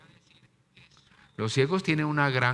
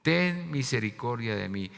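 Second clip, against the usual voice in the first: crying out; 5 semitones higher, 3 dB louder than usual. Acted. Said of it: "Decía".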